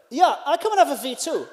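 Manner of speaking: bad accent, W said as V; put-on accent. Juliana answering from upstairs, put-on accent. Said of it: "sorry for the terrible accent".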